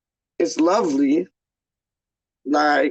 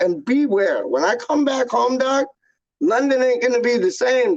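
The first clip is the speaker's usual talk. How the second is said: hyped warning; 5 semitones higher than usual. Real, not acted. Hyped warning of his return.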